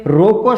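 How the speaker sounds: रोको with a rising tune, then halt; stop after रोको. Shown as a demonstration. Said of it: "और मैं रुक गया". (रोको बोलकर रुकना)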